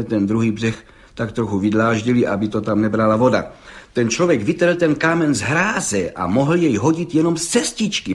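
plain reading voice

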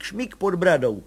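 usual speaking voice

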